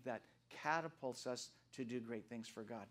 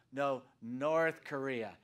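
North hit slow and loud; "North" stretched and punched loud; stress on North; 9 dB louder, much slower than usual. Retold or imitated. Correcting listeners, slow and loud on "North". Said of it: "I go".

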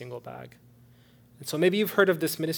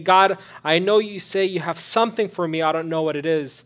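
loud, higher cry to God; pleading to God; 5 semitones higher, 10 dB louder than usual. Acted. Someone waiting on God for years, loud plea. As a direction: call out the plea with force.

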